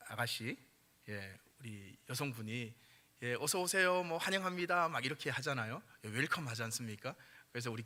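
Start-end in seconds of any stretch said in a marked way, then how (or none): 3.4-4.9 higher, bright greeting like a store greeter; department store greeter. Retold or imitated. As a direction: welcome customers at a department store door. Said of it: "왜 백화점 가면 그러잖아요". (백화점 안내원처럼 살짝 높은 목소리로 인사)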